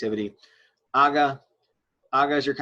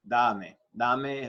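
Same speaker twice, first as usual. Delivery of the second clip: "da" as the strong syllable, "me" unstressed; stress on DA. Shown as a demonstration. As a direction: put the weight on "da", let "me" fall away. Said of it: "The stress is on the da".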